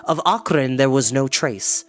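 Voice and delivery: story narration. A narrator's reading. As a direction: tell it like a bedtime adventure.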